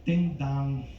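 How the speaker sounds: lightly voiced door-to-door salesman; a hint of a film tough guy, pausing between remarks; Robert De Niro. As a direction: leave gaps and tag on questioning grunts. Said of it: "my impression of Robert De Niro as a door-to-door Vagisil salesman".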